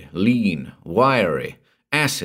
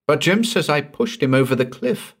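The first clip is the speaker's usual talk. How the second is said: hysterical cry; 7 semitones higher than usual. A narrator's reading. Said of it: "she cried hysterically".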